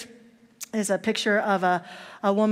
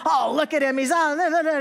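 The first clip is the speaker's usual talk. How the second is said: high, louder exasperated ranting; throwing a fit; 7 semitones higher, 4 dB louder than usual. Retold or imitated. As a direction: sputter in frustration. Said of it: "he's having a big fit".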